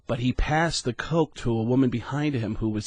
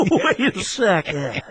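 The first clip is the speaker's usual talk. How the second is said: Sam's voice; 11 semitones higher than usual. Shown as a demonstration. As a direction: drag the words into a wild cry. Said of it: "that voice where you go".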